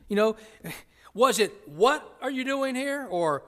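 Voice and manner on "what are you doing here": What set apart and stressed, rest following high. Shown as a demonstration. Preacher testing where the emphasis fell, stressing What. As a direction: lean on the first word, What. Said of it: "where was the emphasis?".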